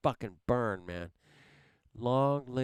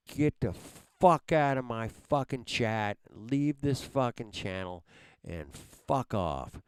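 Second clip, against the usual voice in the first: angry dismissal. Real, not acted. Streamer telling slackers to leave chat, angry and forceful. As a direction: throw them out of the chat.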